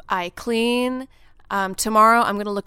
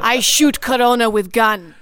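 put-on Russian accent; 5 dB louder than usual. Mock Russian bravado.

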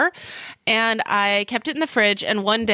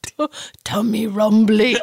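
slow, savoured words through giggles; laughing repeat; 3 dB louder, slower than usual. Real, not acted. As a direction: draw it out while cracking up.

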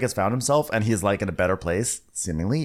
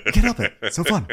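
gleeful teasing; 6 semitones higher, faster than usual. Retold or imitated. Laughing mock of Whitney.

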